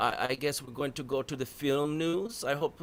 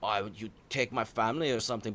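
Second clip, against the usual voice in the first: mock Liam Neeson; 5 semitones lower, 3 dB quieter, faster than usual. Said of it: "you know".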